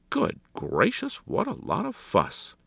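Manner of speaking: high, slow, loud dismay; exasperated exclamation. A narrator's reading. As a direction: draw it out in exasperated astonishment. Alexander exclaims at the fuss.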